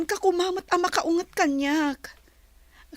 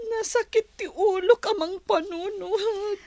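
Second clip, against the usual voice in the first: weepy complaint; a hint of sobbing; tearful; 3 semitones higher than usual. Upset after breakup.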